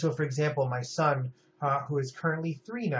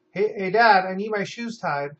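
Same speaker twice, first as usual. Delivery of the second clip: put-on child voice calling out louder, a bit higher; kid calling for dad; 4 semitones higher, 6 dB louder than usual. A child calls dad over to tie shoes, louder kid voice. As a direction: tug at dad's sleeve with your voice.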